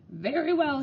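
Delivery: put-on angry headmaster addressing the boys; thundered. A narrator's reading. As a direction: thunder it at the whole school. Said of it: "he thundered".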